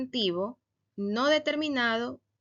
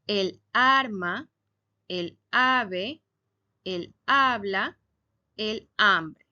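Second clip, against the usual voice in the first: slow, careful examples; 3 dB louder, much slower than usual. Shown as a demonstration. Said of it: "Otros ejemplos".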